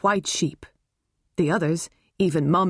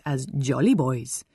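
put-on Indian accent; 4 semitones lower than usual. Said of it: "always said in an Indian accent".

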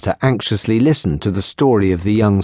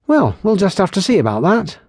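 put-on higher, lively young barmaid voice; teasing barmaid; 10 semitones higher, faster than usual. Barmaid teasing the lieutenant about her healing, higher and playful. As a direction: tease them playfully, brightly pitched. Kylie brushes off compliment.

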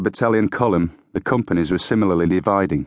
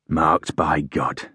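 slow, drawn-out gruff declaration; slow and heavy with emotion; 3 semitones lower, much slower than usual. A narrator's reading. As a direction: finish slowly, gruff with feeling. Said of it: "his voice gruff with emotion".

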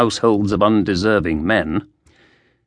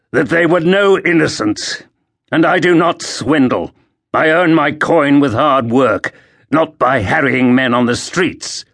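restrained anger; 4 semitones higher than usual. Acted. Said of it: "Crispin answered with gritted teeth".

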